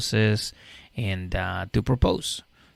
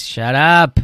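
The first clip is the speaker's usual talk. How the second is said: louder snappish retort; snapped shut up; 5 semitones higher, 8 dB louder than usual. Retold or imitated. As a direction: cut her off sharply.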